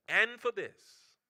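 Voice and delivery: a hushed divine blessing; the Lord's voice. Retold or imitated. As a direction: murmur it low like God speaking. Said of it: "I heard the Lord say".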